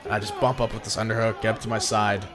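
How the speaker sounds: panting between words; short of breath, tired. Real, not acted. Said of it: "I'm so out of breath".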